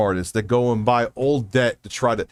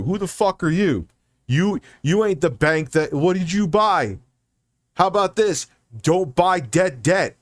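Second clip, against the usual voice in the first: heated rant; 5 semitones higher than usual. Real, not acted. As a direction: tell off the debt buyers. Ranting at debt buyers.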